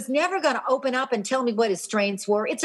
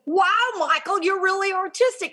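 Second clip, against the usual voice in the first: put-on impressed kids; 7 semitones higher than usual. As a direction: gush like an amazed classmate. Kids admiring the art board.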